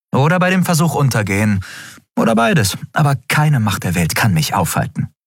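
Endriel voiced. Endriel's dialogue voice.

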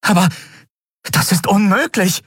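hoher, ungläubiger Ausruf; ausgerufen. A narrator's reading. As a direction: ruf es fassungslos aus. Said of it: "rief sie aus". (ungläubig ausgerufen)

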